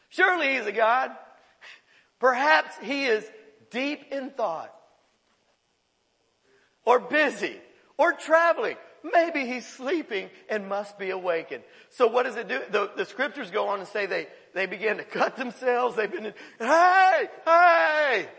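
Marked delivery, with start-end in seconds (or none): 0.1-11.6 mock taunt. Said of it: "Elijah began to taunt them". 16.6-18.3 high, loud wailing call; frantic high shout; desperate crying out. Retold or imitated. Prophets crying out to Baal.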